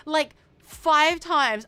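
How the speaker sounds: very slow, high and loud, every word stretched out; milk it like the big reveal of the story; drawn-out dramatic emphasis. Real, not acted. Dramatic retelling of cat headbutts.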